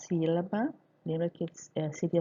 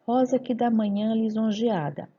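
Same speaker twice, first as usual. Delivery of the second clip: verse recitation. Shown as a demonstration. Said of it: "numa poesia de Gregório de Matos". (recitação de verso)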